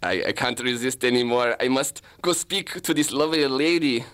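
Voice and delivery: lightly put-on German accent; hint of a hammy German accent; German detective. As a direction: play an amateur German detective on surveillance. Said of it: "I'll play the German detective".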